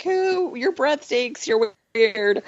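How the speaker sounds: lightly voiced grumpy toddler; mock cranky toddler. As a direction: tease the baby brushing her off. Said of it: "She's like".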